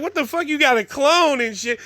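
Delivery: squeaking high, hardly believing the clone; a high yelp of shock; stunned disbelief. Retold or imitated. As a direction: caught off guard by a double. Second twin shows up.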